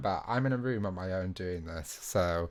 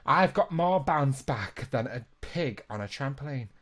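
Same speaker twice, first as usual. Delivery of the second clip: higher, lightly put-on character voice; attempted impression; 4 semitones higher, 4 dB louder than usual. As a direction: have a go at a character's voice. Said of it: "My impressions are off".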